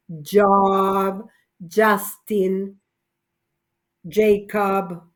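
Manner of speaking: Job said with a Y sound, like yob; Job, Justin, Jacob with J spoken as an English Y. Shown as a demonstration. Teacher showing the class J sounds like Y. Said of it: "la J se pronuncia como Y".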